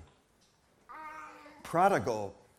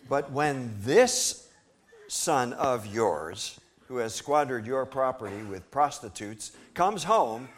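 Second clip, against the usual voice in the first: resentful son; 2 semitones higher, 4 dB louder, slower than usual. Acted. Older son accusing his father, resentful and rising. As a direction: spit out the words son of yours. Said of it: "he answered his father".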